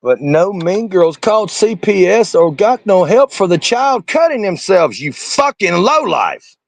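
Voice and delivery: high, slow, biting contempt; slow angry retort. Real, not acted. Ranting at a commentator's clip, slow angry contempt. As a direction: drag out each word with scorn.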